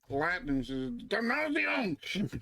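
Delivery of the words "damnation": put-on high, slow Swedish-accented curse. Cursing after switching languages, Swedish accent. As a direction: draw it out in a mock Swedish accent. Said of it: "In a Swedish accent".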